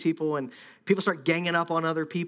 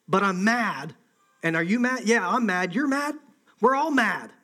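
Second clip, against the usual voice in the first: lightly acted angry mob chatter, pitch climbing; a touch of riled-up indignation; mock mob anger; 4 semitones higher, 4 dB louder than usual. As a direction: play people in a crowd egging each other on.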